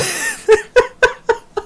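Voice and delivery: high, sudden burst of laughter. Real, not acted. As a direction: break into a real high laugh. Laughs at the sentence.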